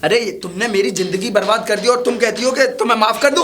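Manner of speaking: heated, indignant outburst; rising, emphatic reproach; angry accusation. Acted. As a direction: throw the apology back at them. Quarrel, jilted lover rejects her apology.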